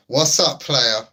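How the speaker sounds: loud, high call-out to a friend; big excited hello across the room; pumped-up welcome shout; hype greeting. Real, not acted.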